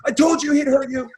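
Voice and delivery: sing-song told-you-so from a teammate; mocking teammate. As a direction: rub it in like a laughing teammate. Pepe is laughing at me.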